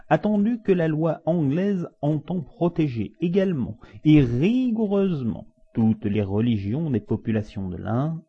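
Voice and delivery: high-pitched judge delivering a ruling; pompous judge. Acted. Judge ruling on the sacrilege case, high and pompous.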